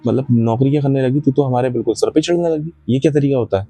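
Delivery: father scolding. Retold or imitated. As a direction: play the stern father telling off his rude daughter. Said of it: "उसके पिता ने फटकार दिया".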